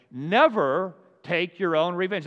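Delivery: NEVER stretched high and loud; emphatic reminder. Acted. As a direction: lean hard on Never, slowly and forcefully. Emphatically reads out plaque while tempted.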